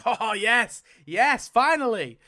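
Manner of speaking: loud, high, laughing celebration; elated, relieved shout; real delighted cheer. Real, not acted. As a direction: burst out cheering, stretching it out. Cheers the wheel's result.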